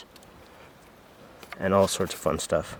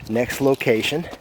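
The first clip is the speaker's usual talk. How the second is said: shouting over wind; 3 semitones higher, slower than usual. Real, not acted. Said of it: "sorry about the wind noise".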